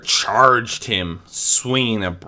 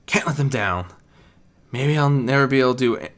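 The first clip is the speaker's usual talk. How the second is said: a small voice running himself down; Spike doubting himself; 3 semitones higher than usual. Acted. Spike thinking about Twilight, doubting his worth.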